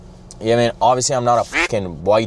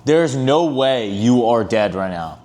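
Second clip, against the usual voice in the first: disbelief; 3 semitones higher, slower than usual. Retold or imitated. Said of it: "I was like".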